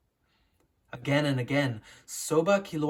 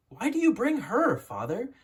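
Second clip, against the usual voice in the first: indignant son; 8 semitones higher than usual. A narrator's reading. Jealous son to his father before war, higher, indignant.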